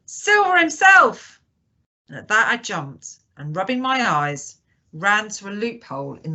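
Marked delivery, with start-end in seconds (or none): 0.0-1.4 high, loud astonished shout; startled high-pitched exclamation; cry of surprise. A narrator's reading. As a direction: cry out in amazement, drawing it out. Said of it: "with a cry of surprise".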